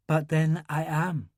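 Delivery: slow, plain and unfussed; simply. A narrator's reading. Grace admits her theatrical streak, said simply and slowly. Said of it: "she said simply".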